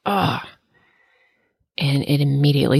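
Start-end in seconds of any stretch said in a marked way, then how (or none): 0.1-0.5 retold wince. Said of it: "kinda made it like a".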